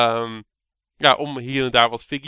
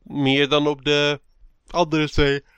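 yawning; slower than usual. Real, not acted. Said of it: "wat gaap je".

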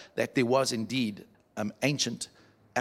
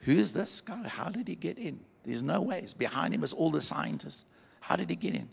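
higher, softer puzzled inner voice; puzzled thinking; 3 semitones higher, 5 dB quieter than usual. Acted. David wondering how the old man got in, puzzled. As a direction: think aloud in mild bafflement. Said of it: "he's looking around thinking".

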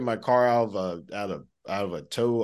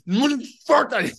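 high, loud mock outburst; sudden high-pitched curse; retold yell; 7 dB louder than usual. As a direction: blurt it out like a furious boss. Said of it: "started yelling at this dude".

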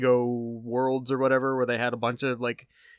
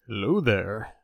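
NPR voice; 3 semitones lower than usual. Pretend. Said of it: "This is your best N P R voice".

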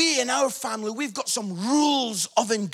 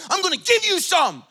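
threatening dad; 8 semitones higher than usual. Retold or imitated. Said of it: "I'm over the table".

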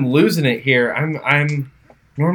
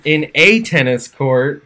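slow emphasis; slower than usual. Shown as a demonstration. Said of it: "slow careful rereading".

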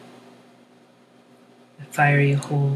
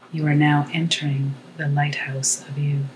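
whispering. Acted. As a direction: whisper it as if close by. Whispered moment in meditation.

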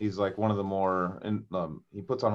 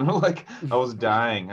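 laughing; 3 semitones higher, 4 dB louder, much slower than usual. Real, not acted. Laughing retelling of hangover.

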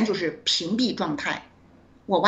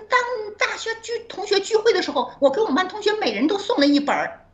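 classmate's voice; 11 semitones higher than usual. Retold or imitated. Classmate voiced in retold chat.

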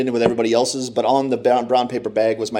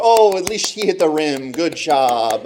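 cheery mom voice; 4 semitones higher, slower than usual. Retold or imitated. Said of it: "my mom would go".

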